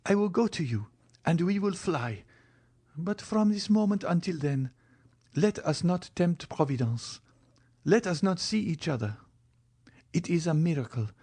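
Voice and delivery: Valentine's voice. A narrator's reading. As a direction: plead as the young heroine Valentine. Valentine's lines.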